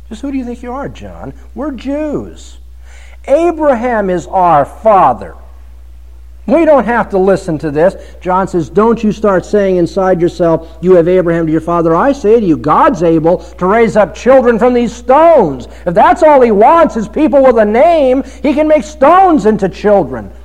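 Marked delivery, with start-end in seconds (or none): 0.1-7.9 higher, offended crowd retort; indignant crowd. Pretend. 8.7-20.3 louder, higher, rising rebuke; fiery preaching. Acted. Preaching John's rebuke at full force.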